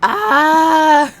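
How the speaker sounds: loud high squawk; high bird squawk. Pretend. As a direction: screech like a crow. Crow caw after Discord icon.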